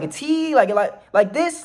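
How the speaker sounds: very high, incredulous mock shout; retold yelling back. Man on ground answering cops, high retold yell. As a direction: pitch it up in baffled protest. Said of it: "I started to yell back at the cops".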